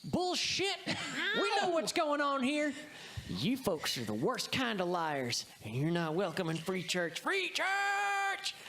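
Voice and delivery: high-pitched, hammed-up outraged villagers; indignant townsfolk. Guards reject the deception and banish the liars, hammed-up high indignation. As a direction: call out the liars, rising to a chanted cry. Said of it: "Yeah, they're like".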